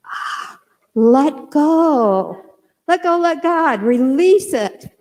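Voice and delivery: a mild retold yell, letting go in midair; half-shouted release while jumping; mock scream. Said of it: "I started screaming really loud".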